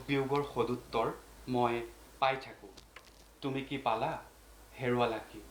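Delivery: measured poem reading with long pauses; poetry recitation. Acted. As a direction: recite line by line, letting each phrase stand. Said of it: "এই কবিতাটোকে মই প্ৰথম পাঠ কৰিব".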